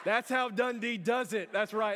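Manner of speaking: put-on strut and gloat to the cheering kids; cocky camp legend boasting; bragging hero. Bragging after killing snake.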